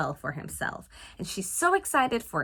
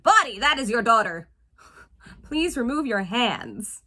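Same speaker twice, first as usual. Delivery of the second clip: mock scolding. Mock telling off the film's actor.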